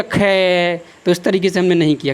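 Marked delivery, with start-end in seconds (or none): 0.0-0.8 drawn-out "खे" as a rejected car sound; contrasting engine noise. Shown as a demonstration. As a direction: stretch खे like a mock engine noise. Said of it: "हमने क्यों नहीं किया". (खे को खींचकर गाड़ी जैसी आवाज़)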